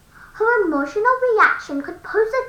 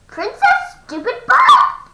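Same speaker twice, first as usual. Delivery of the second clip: loud mocking taunt; 7 semitones higher, 5 dB louder than usual. Greeting her arch enemy.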